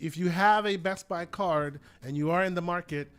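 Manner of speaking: a hint of Texan twang in the pitch; light Southern accent. Real, not acted. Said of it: "get a Southern accent just now".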